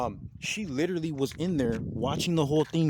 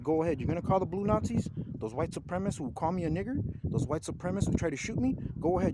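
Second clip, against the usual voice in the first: mildly indignant, pitched-up challenge; defiant retort; 4 semitones higher than usual. Retold or imitated. Man daring the officer to call the cops, defiant. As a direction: retell a dare, voice lifted higher.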